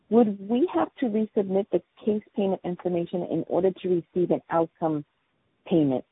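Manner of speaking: muffled, mic too far away. Real, not acted. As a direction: speak through muffled, covered mic. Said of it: "you sound muffled".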